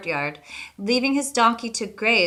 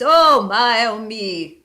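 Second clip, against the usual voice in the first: wailing ghost; 2 semitones higher, 8 dB louder, slower than usual. A narrator's reading. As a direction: wail it like a mournful ghost. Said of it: "cried the voice".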